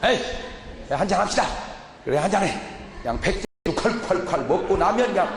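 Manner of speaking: hearty, rising mock drinking-buddy banter; imitating drinking buddies. Drinking buddy forgiving his friend, hearty and rising. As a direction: play two men making up over soju.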